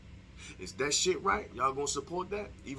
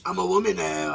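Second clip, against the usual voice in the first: loud, higher put-on woman voice; mock woman voice; 4 semitones higher, 9 dB louder than usual. Self-styled ugly woman announcing herself, mock woman voice. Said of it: "in my woman voice".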